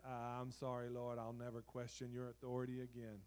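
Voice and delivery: sheepish small voice; lightly voiced chastened Job; humbled Job. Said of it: "And Job said".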